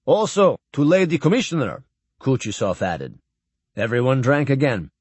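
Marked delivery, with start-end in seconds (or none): 0.1-1.8 put-on raised, formal old admiral with a foreign lilt; lightly voiced stately admiral toasting; old Russian admiral. Admiral addressing Captain Blaine at the farewell dinner, lightly voiced and stately.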